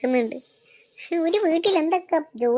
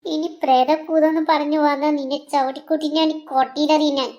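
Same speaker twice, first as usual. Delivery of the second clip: angry threat. Acted. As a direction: scold her for the ghost nonsense. Husband threatens about ghost talk. (ദേഷ്യത്തോടെയുള്ള ഭീഷണി)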